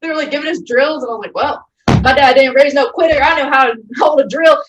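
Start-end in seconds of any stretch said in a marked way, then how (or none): 1.4-4.6 defiant pride. Retold or imitated. Her defiant retort.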